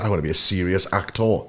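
put-on a glimpse of an English accent. Actor quotes his younger self's ambition, hint of English accent. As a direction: lightly slip into English-accented speech. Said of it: "glimpse of your English accent".

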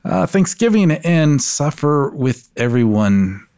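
hammed-up self-sacrifice; mock martyr.

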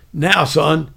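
loud imitated sergeant; real loud. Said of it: "he said it real loud".

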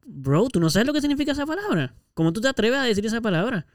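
pitched well up, mock-indignant; indignant retort. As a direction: confront him, half acted, with offended disbelief. Responde indignado a un insulto. (réplica indignada y exagerada, tono mucho más alto)

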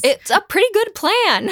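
high-pitched playful protest; squeaky-high comic defensiveness. Real, not acted. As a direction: defend it with your voice shooting way up. Jokingly defends the friar's plan.

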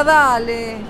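ordinary talk

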